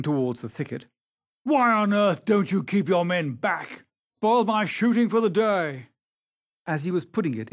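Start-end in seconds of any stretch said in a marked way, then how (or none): 1.4-5.9 loud, high, indignant reprimand; angry scolding. A narrator's reading. Sir Geoffrey blaming the keeper for spoilt shooting, angrily. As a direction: berate him with raised voice. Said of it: "answered Sir Geoffrey angrily".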